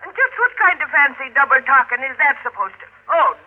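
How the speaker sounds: spitting Irish fury; angry Irish brogue, struggling; furious protest. Acted. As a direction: fight off the arresting hands. Meg's turns on the police.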